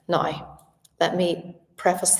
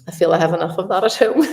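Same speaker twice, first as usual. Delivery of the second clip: laughing; 6 dB louder, much faster than usual. Real, not acted. Joking about sons and husband.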